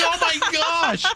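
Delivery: high, slow drawn-out disbelief; exasperated oh my gosh. Retold or imitated. Reporter reacting to the shy giant fan, slow and exasperated. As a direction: stretch it out in disbelief. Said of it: "I'm like".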